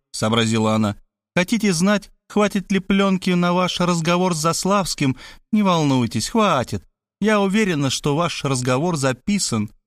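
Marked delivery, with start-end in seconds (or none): 1.3-9.7 higher-pitched woman, reassuring; assured woman's voice, lightly lifted; lightly voiced knowing woman. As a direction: play a woman who has caught on. Voices Мархалёва reassuring him.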